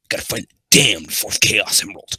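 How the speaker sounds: trying out the rival's voice; Shadow voice. Shown as a demonstration. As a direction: punch DAMNED like a brooding game rival. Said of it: "What should be Shadow's voice?".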